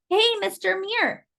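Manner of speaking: high, drawn-out call across the lobby. Acted. Leticia calls to the superintendent across the lobby, calling out. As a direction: call out to him across the room. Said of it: "Leticia called out".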